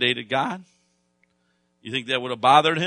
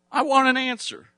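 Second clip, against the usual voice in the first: high, insistent demand; demanding answer; 13 semitones higher, 4 dB louder than usual. Retold or imitated. Preacher voicing a man demanding an answer from God, pitched high. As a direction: plead and insist at once.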